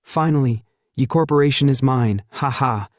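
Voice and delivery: lightly voiced smug gloating; a hint of a triumphant gloat. Ye Lin gloats over winning the company, mild smug tone. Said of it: "smugly says".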